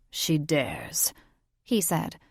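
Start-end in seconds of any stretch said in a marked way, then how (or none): 0.1-1.1 low, slow whisper; whispered aside. A narrator's reading. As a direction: hush it like a secret. Grandfather's quiet aside.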